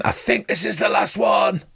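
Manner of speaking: shouting out. Acted. Etigal digging, calling to everybody, high mock shout. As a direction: call it out to the whole party. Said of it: "Etigal's shouting".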